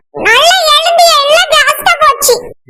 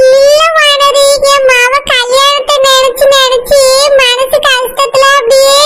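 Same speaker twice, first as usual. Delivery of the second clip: slow, dragged-out sickly plea; feigned weak drawl; 2 semitones lower than usual. Pretend. Pleading with Vanathi, slow fake-sick voice. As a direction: stretch the words like a patient just recovering. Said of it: "அதான் அப்படியே இழுப்பு மாதிரி வந்துட்டு".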